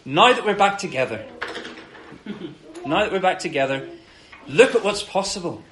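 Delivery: God overjoyed that they're back together; excited. Retold or imitated. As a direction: bubble over with delight at the reunion. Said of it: "he's so excited".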